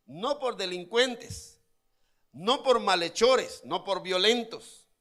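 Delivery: each no por hammered out slowly; slow emphatic denials. Acted. Preacher hammering that Pablo and Silas were no criminals, slow emphatic. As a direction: stress no por, slow and loud.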